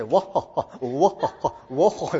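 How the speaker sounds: mock "wa-ha-ha" in short bursts; imitated hearty laugh. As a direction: imitate a big belly laugh, playfully. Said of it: "丸くなっちゃって".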